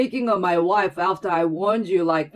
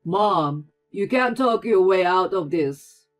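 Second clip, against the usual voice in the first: angry son; 7 dB louder than usual. A narrator's reading. Brother-in-law rebukes his mother for bullying Claire, angry. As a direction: confront his mother hard.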